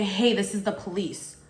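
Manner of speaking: breezy, offhand this is the police; too casual police. Shown as a demonstration. The fake caller's careless greeting, lightly mocked. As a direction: toss it off like a prank caller. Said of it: "they don't just say".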